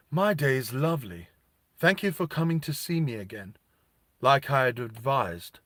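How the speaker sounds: coolly smug machine reply, lightly voiced; snarky. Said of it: "real snarky".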